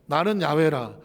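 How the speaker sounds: ordinary delivery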